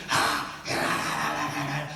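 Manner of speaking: low, soft spirit noises; imitated jinn babble. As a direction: mimic a possessed person's gibberish. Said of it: "the jinn talking".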